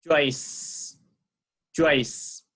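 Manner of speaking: Joyce said slowly and clearly for the class; teacher models Joyce word by word; careful model of Joyce; model word chase. Shown as a demonstration. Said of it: "repeat after me".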